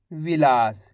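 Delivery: सितार said low and deliberate; clear final reading. Shown as a demonstration. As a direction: land सितार low as the finished word. (सितार को धीमे और गहरे स्वर में पूरा बोलें)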